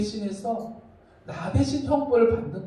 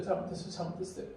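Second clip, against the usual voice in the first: pleading apology; 3 semitones lower, 11 dB quieter, faster than usual. Retold or imitated. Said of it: "엄마가 어떻게 해요?".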